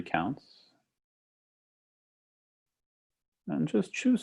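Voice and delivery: calm meditation guide with long pauses; guided meditation. Acted. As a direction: lead them gently into the breath, unhurried. Leads a guided breathing meditation.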